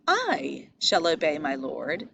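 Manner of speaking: slow, with the weight on "I"; stress on I. Shown as a demonstration. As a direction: lean on "I" in "I shall obey my lord". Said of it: "If we emphasize different words".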